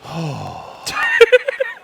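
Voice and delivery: long high-pitched longing sigh; high wistful sigh. Acted. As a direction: sigh dreamily for him. Longing sigh over Nate Shot.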